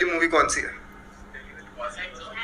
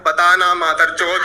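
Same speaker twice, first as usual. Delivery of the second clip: mock gangster threat; slower than usual. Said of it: "बंदूक डाल के बोलते हैं".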